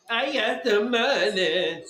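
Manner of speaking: slow, mocking imitation of a bragging kid. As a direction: drag it out like a mocking brag. Mocking the friend's flexing.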